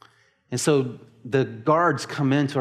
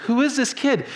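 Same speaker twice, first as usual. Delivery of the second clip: mock bewilderment; 7 semitones higher than usual. Retold bewilderment at a scream.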